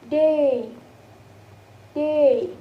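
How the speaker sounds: "day" drawn out with falling pitch; example word demo. Shown as a demonstration. Teacher giving an example word for the vowel, drawn-out pronunciation demo. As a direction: model "day", gliding through the vowel. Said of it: "as in the word of".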